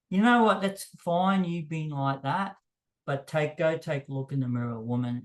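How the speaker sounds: mock-nasty put-down to a rude match; getting nasty. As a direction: tell her off with a sharp jab. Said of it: "then I got nasty".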